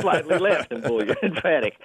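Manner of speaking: undercut the joke with a chuckle. Shown as a demonstration. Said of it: "he has two modes".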